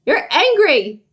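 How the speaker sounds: big emphatic angry voice; acting angry. Shown as a demonstration. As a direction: act angry for children. Acts out angry after screams.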